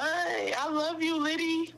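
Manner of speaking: slow, heartfelt; tender. Real, not acted. Fan caller telling Liddy she loves her, drawn out. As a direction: stretch it out, heartfelt.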